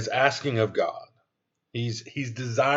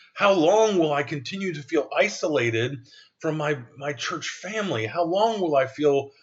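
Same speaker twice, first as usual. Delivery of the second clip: crying out to God; 2 semitones higher than usual. Retold or imitated. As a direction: cry out the question to God, aching. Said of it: "where I'm crying out on a daily basis".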